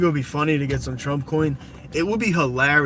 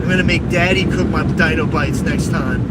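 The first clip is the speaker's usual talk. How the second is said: louder spoiled brat shouting at mommy; mock tantrum, yelling at mom; bratty kid yelling; 2 semitones higher, 3 dB louder than usual. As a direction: scream demands like a spoiled gamer kid. Mocking a whiny kid demanding food.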